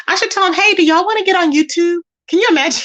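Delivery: high, giggly mock invitation; laughing. Real, not acted. Speaker jokes about inviting neighbors on YouTube, laughing. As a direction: pitch it up, about to crack up.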